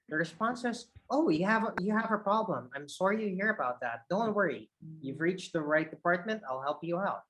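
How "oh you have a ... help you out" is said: gentle concern, voice settling; lower energy, concerned. Shown as a demonstration. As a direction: reassure an unhappy caller, easing downward. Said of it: "Lower energy, and I should sound more concerned".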